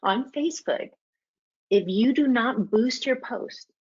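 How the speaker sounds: slow, deliberate emphasis; real slow. Shown as a demonstration. Presenter repeating a Facebook warning for listeners, real slow. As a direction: spell it out slowly, phrase by phrase. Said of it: "I'm gonna say it real slow for you".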